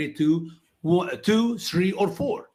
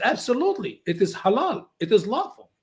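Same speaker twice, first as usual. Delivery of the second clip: sure lady's voice, higher; voicing the lady; 5 semitones higher than usual. Lady defending mut'a, higher voice. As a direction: state it as the lady would, pitched up. Retold talk with Iranian lady.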